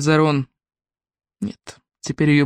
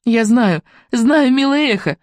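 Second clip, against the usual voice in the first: joyful thanks; 5 semitones higher than usual. Acted. Melisende answers the echo happily.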